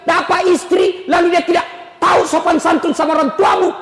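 rising fervent preaching about a mother's sacrifice; preaching at full force. Acted. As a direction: pile it on line by line like a fiery preacher.

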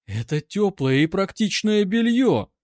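parry with wounded dignity; proudly defiant reply; dignified retort. A narrator's reading. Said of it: "с достоинством парировала Анка".

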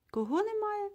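high astonished asking back; surprised question. A narrator's reading. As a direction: jump up in pitch, can't believe it. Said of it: "перепитав Конрад".

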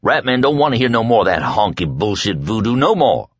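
a hint of a scared, angry thug; lightly voiced angry jailer. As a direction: push back the fear with anger. Rat Man snaps at prisoners.

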